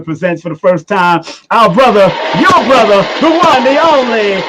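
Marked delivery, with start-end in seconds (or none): 1.5-4.4 building to a long drawn-out shout on the name; hype announcer intro. Acted. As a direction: call the guest out like a ring announcer. Host introducing guest on show.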